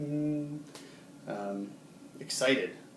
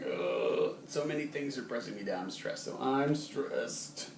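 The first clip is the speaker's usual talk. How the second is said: weighed down; slower than usual. Shown as a demonstration. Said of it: "you're just going".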